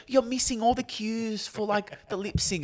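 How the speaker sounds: high-pitched mocking commenter voice; mock complaining. Host mimicking TikTok commenters who miss the joke, mock complaining. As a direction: whine it high, like a clueless commenter.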